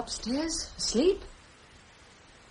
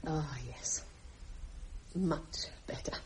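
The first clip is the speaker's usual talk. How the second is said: relieved whisper; 12 semitones lower, 13 dB quieter than usual. Acted. Relief after a large scotch.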